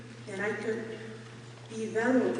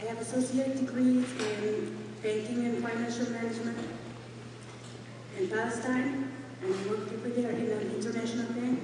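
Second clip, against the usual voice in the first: out of breath. Real, not acted. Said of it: "I'm out of breath".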